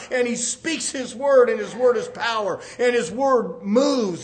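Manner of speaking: fervent sermon delivery; preaching. Real, not acted. Preacher driving the word into hearts, fervent preaching. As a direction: press each phrase home to the congregation.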